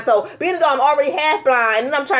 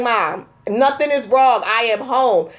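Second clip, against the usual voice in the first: exasperated daughter; 3 semitones lower, slower than usual. Retold or imitated. Retold exasperated answer to mother.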